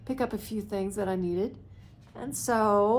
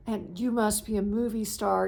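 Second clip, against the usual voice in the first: put-on light Mexican accent. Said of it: "very heavy Mexican accent".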